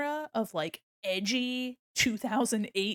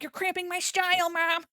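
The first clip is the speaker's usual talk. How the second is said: put-on whiny kid; 9 semitones higher than usual. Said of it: "you're like".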